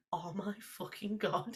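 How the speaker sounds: slow, hushed disbelief; quietly dumbstruck; stunned realisation. Retold or imitated. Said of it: "and I was like".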